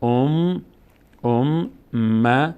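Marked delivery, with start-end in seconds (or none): 1.2-2.5 ام then م said slowly and apart; slow teacher spelling; slow syllable drill. Shown as a demonstration. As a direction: sound out the doubled م slowly. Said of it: "یک بار با فتحه خودش".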